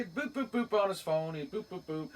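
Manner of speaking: light little boops; imitated phone beeps. Storyteller mimicking Ryan dialling, playful beeps. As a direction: mimic tapping on phone buttons.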